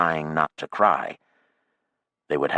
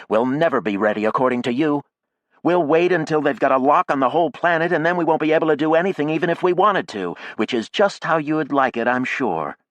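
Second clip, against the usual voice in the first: loud, higher, rushing attack; angry accusation; 9 semitones higher, 4 dB louder than usual. A narrator's reading. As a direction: hurl the accusation at her. Jackie accuses Maya.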